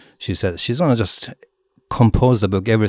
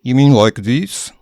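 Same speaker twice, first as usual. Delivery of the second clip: imitating students trying; 6 semitones higher, 8 dB louder than usual. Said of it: "And they go".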